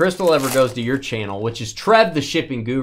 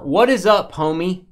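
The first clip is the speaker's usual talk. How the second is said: higher, punched "what is up"; homie greeting; 6 semitones higher, 6 dB louder than usual. Shown as a demonstration. Host showing how he hails a homie, punched greeting. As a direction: greet a homie with raised pitch and volume. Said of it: "I say it like that".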